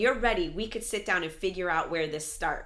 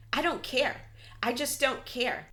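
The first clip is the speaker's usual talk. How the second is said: mock freak-out; 6 semitones higher than usual. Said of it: "freaking out saying".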